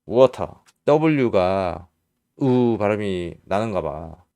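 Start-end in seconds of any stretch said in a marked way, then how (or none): 0.1-0.5 "water" with a clear hard T; British pronunciation. Shown as a demonstration. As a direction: say "water" British-style, ending in an open ah. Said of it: "미국, 영국에서는 water 이렇게". ("water"의 T를 또렷하게, 영국식으로)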